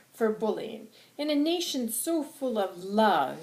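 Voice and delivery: drawn-out impassioned oratory; angry, passionate. Acted. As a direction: preach it with heated emphasis. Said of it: "I'm very angry and I'm very passionate".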